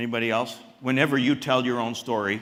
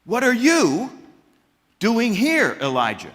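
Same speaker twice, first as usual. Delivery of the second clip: high, booming divine question; voice of God; 9 semitones higher, 5 dB louder than usual. Acted. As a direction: call out as God, searching. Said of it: "the voice of the Lord comes to him and says".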